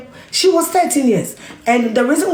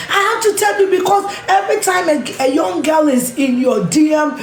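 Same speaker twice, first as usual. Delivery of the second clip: 1 raised plea; 3 semitones higher than usual. Real, not acted. Passionate appeal to listeners.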